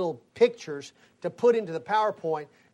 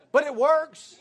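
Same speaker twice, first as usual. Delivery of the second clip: triumphant; 7 semitones higher, 6 dB louder than usual. Real, not acted. Proud punchline after wife's critique.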